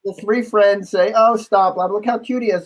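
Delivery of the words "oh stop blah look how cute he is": high-pitched, playful chiding; imitated friendly scolding. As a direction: mimic friends shushing the rude one, pitched up. Friends scold the rude one, admiring.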